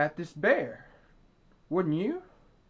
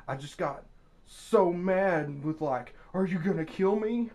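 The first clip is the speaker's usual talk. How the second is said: quoting the victim; 3 semitones higher than usual. Retold or imitated. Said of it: "these are the guy's own words".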